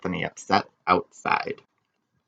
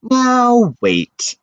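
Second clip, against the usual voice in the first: high, louder firm halt; firm Strigonona; 13 semitones higher, 5 dB louder than usual. Acted. Strigonona halts the angry townsmen, firm and higher. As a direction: stop the crowd. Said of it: "said Strigonona".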